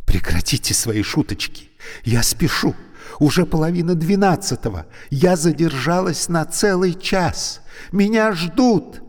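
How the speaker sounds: high, loud, rushed complaint; impatient woman in a hurry. A narrator's reading. Trapped woman late for a date, impatient. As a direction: hurry him up, she's late. Alevtina's voice in story.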